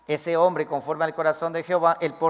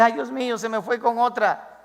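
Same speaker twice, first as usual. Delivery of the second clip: higher, wailing lament; hammed-up complaint about the devil; imitating a wife crying over her husband; mock weeping wife; 4 semitones higher, 3 dB louder than usual. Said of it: "Vas a llorar, decir".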